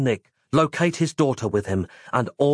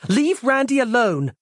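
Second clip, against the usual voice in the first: yelling; 12 semitones higher, 3 dB louder than usual. Acted. Roz yelling at Mike.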